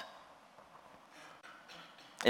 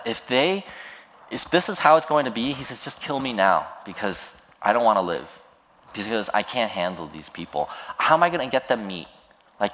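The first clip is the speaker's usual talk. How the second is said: frustrated Moses. Retold or imitated. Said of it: "moment of utter transparency".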